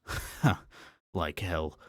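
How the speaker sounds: put-on Scottish accent. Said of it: "now speaking in a male Scottish accent".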